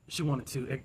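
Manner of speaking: talking through a yawn. Real, not acted. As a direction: let a yawn stretch the words. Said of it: "excuse me for yawning".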